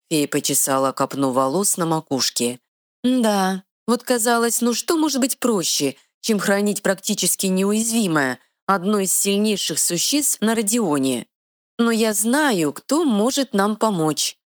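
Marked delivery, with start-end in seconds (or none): 3.0-14.4 high, quick little fairy voice. Acted. Fairy scolding the troll, high and bossy. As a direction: play a tiny sassy fairy, pitched high.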